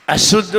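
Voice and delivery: अशुद्ध with a strong hissed "sh"; whistling sibilant. Shown as a demonstration. Teacher points out the whistle, hissed "sh" in अशुद्ध. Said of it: "सीटी आती है".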